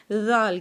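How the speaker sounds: زال with tongue between teeth, voiced; Arabic dhaal. Shown as a demonstration. Teacher shows زال with tongue between teeth. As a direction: buzz زال like th in this. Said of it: "جہاں سے ہم نے سا کی آواز نکالی".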